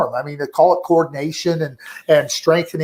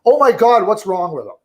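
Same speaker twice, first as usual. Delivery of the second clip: alarmed fan; 3 semitones higher than usual. Retold or imitated. Analyst mimicking fans panicking over a prospect, mock alarm. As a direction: play a panicky fan overreacting, lightly. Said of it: "or in the case of Alexis Lafreniere".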